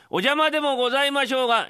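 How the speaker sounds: a refined hostess voice pitched well up; polite lady. Acted.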